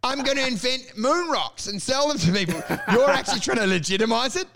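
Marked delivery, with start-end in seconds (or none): 0.0-2.6 lightly voiced drunk rambler; a hint of drunken big talk; drunk fuckhead. Mocking his co-host's podcast schemes, lightly drunk. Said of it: "like a drunk fuckhead that's going like".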